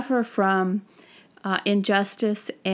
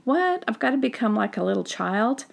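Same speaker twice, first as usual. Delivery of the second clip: incredulous what; 2 semitones higher than usual. Retold or imitated. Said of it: "they're saying".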